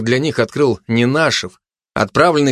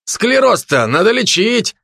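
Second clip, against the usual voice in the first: high, mocking needling; ironic advice; 7 semitones higher than usual. A narrator's reading. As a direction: rub it in with irony. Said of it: "посоветовал Замшелов коллеге с иронией".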